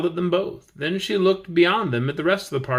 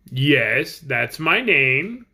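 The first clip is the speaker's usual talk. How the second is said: growl; much slower than usual. Acted. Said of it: "in a voice like a growl".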